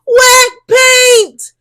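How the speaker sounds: high, loud warning; warning shout. A narrator's reading. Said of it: "they both warn".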